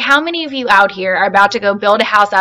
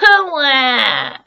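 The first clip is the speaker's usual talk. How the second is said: wailing; 4 semitones higher than usual. Acted. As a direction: howl it like a bawling baby. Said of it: "said the voice from across the pond".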